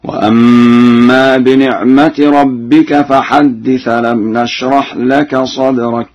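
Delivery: slow, measured tajweed recitation; Quran recitation. Shown as a demonstration. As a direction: recite slowly with held nasal sounds. Recites Quran verse in lesson.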